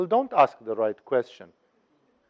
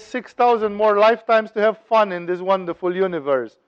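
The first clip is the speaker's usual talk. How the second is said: higher-pitched, mildly joyful voice; joyful exclamation; 4 semitones higher than usual. Acted. Seeker rejoices at six thousand lifetimes, mild joy. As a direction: lift the pitch with delight, without yelling. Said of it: "he yells with joy".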